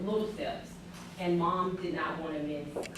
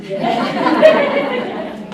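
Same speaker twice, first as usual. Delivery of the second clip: laughing yeah; 18 dB louder than usual. Real, not acted. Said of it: "We love that story".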